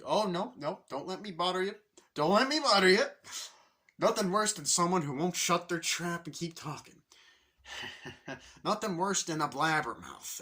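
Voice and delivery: high, loud, protesting too much; overeager salesman. Retold or imitated. Salesman assures annoyed seatmate, high and loud. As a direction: insist loudly you won't bother him. Salesman voiced, defensive chatter.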